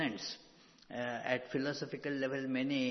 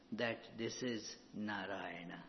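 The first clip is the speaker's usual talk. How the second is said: hushed whisper, much softer; 4 semitones lower, 7 dB quieter than usual. Real, not acted. Teacher imprinting Narayana on listeners, whispered. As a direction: breathe the words like a secret truth.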